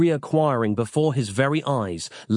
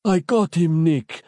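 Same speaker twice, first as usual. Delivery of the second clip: high, breathless dying man's voice; gasping Capello; 7 semitones higher, 4 dB louder than usual. A narrator's reading. Capello gasping his news to Nick. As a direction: gasp it out with no lungs left. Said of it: "gasping for breath".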